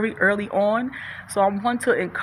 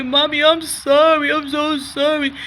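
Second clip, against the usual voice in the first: put-on child's apology; 8 semitones higher, 4 dB louder than usual. Child apologizing to parent voiced.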